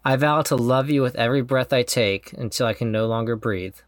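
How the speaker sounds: sincere, measured vow reading; heartfelt vow reading. Real, not acted. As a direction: read the vows with tender sincerity. Reads his wedding vows aloud.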